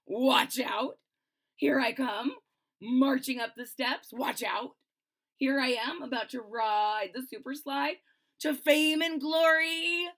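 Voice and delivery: proud, bouncy hero voice; march up boldly like a little hero; brave little bean. Acted. Reading Garbanzo's brave lines.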